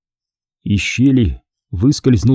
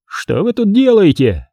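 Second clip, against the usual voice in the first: higher voice with a hint of hoarseness; hoarse voice; 7 semitones higher than usual. A narrator's reading. Stranger behind the stands interrupts the boys, hoarsely. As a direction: challenge them in a lightly hoarse voice. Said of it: "его прервал хриплый голос".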